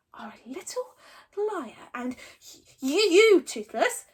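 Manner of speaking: mixed dragon voice; calm dragon. A narrator's reading. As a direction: taunt him. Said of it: "said Toothless calmly".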